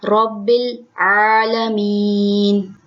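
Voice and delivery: रब्बिल with a thick heavy रॉ, slow; रब्बिल said with a full-mouthed r. Shown as a demonstration. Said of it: "रॉ को पुर पढ़ेंगे".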